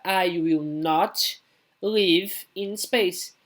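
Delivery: "I will not" read slowly with each word apart; negative model. Shown as a demonstration. Teacher showing students where "not" goes, slow and clear. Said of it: "boto not depois do will".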